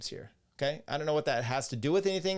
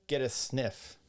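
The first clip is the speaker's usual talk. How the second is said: usual speaking voice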